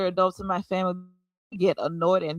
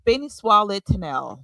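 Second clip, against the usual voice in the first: missionary Creole accent; 3 dB louder than usual. Shown as a demonstration. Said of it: "can you give us a small demonstration".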